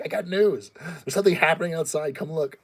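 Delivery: high, excited pet voice, a little fast; voicing the pet hyrax. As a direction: play the hyrax eagerly calling her owner outside. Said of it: "She's like".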